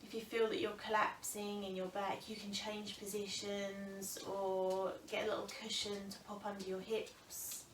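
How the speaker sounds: calm, unhurried breathing guidance with long pauses; yoga teacher settling a class into the breath; guided meditation. Real, not acted. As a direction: ease them gently into stillness, phrase by phrase. Leads seated breathing meditation.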